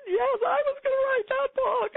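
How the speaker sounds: very high, loud and thrilled; eager. Retold or imitated. Answering her inner voice, very high and thrilled. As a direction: leap at the idea.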